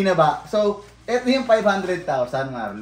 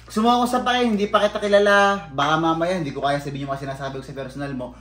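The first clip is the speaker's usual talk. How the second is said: mocking threat; faster than usual. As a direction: throw his own tough words back at him. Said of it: "sabi mo sa akin".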